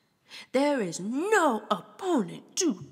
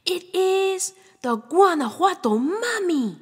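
high, loud announcing cry; dramatic reveal; 10 semitones higher, 7 dB louder than usual. Acted. Reader revealing the mummy to the child, loud. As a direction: unveil the monster with a gasp.

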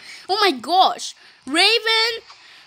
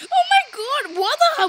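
startled character; 10 semitones higher than usual. Pretend.

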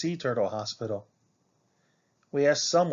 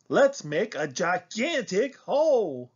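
higher, eager exclamation with swooping pitch; excited gasp; 7 semitones higher than usual. A narrator's reading. Child proposing digging on the beach, gasping with excitement. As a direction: burst out with a big idea. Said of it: "I gasped".

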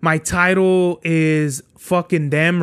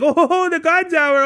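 higher, hammed-up announcer voice for his podcast name; mock show voice; 9 semitones higher than usual. Mocking the idea that his podcast is an act, hammed-up. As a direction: lightly parody a put-on host persona with a laugh. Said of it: "put on a mask".

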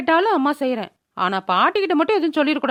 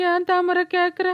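tearful wail; 4 semitones higher than usual. Acted. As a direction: whine it as if crying. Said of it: "அதுக்கு எதுக்குடி அழுதுட்டு இருக்கிற". (அழுகையோடு புலம்பல்)

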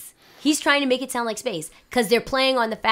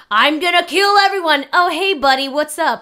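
mock Rey mood swing; 6 semitones higher, 8 dB louder than usual. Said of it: "he was like".

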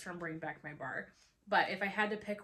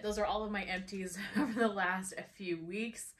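out of breath. Real, not acted. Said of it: "I feel like I'm out of breath".

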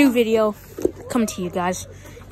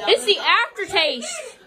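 laughing; 5 semitones higher, slower than usual. Real, not acted. Laughing through hot chip burn.

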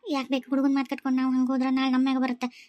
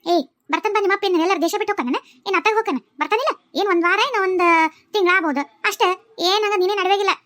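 scolding; 4 semitones higher than usual. Acted. Scolding a crying child.

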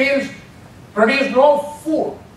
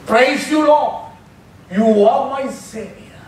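worshipful praise; 2 semitones higher, slower than usual. Shown as a demonstration. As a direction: lift up praise to God, gently. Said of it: "that is worship".

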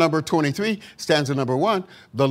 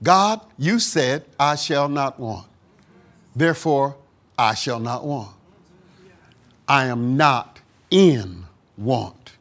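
quiet affirmation; 3 semitones lower, 3 dB quieter than usual. Shown as a demonstration. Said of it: "is say".

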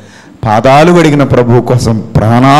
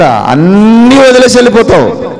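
loud, high warning; 8 semitones higher, 4 dB louder than usual. Acted. Preacher warning the congregation, high and loud. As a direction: raise the pitch and press hard. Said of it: "repeated line, marked take".

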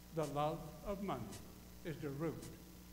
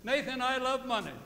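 louder, higher brother's confession; imitating his brother; 6 semitones higher, 7 dB louder than usual. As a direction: play the brother owning up. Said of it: "he walking behind me one day and said".

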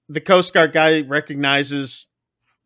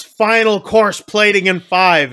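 slow, raised retold kitchen call; mild mock yell; 4 semitones higher, 4 dB louder than usual. Chef calls the last course to his kitchen, mild mock yell. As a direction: imitate a chef calling out, half-strength. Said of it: "then he yells".

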